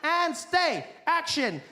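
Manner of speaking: coaxing trainer, mock calls to a fly; fly trainer calling out. Trainer on a film set calling the trained fly, coaxing. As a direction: call the fly over like a dog trainer.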